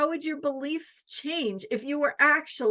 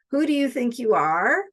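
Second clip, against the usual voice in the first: critical challenge; 4 dB louder than usual. Shown as a demonstration. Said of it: "What if we turn that around?".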